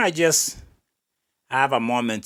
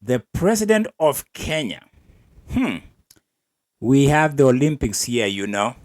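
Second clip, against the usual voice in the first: Trump quote; 2 semitones higher, 4 dB louder than usual. Retold or imitated. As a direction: mimic Trump introducing the president of Kenya, only lightly.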